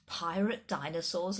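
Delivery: rising, mocking question on "Pirate dinosaurs?"; the guide mocking Flynn's claim with a rising question; scoffing disbelief. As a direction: scoff at the silly idea. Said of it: "laughed the guide".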